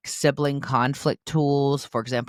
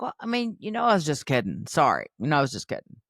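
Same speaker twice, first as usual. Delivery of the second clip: sarcastic fake apology; faster than usual. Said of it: "they're like".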